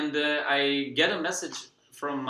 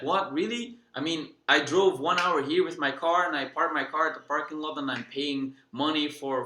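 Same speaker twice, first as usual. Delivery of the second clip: upset protest; 3 semitones higher than usual. Retold or imitated. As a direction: push back like a stranger who can't get in. Frustrated guy pleads to enter.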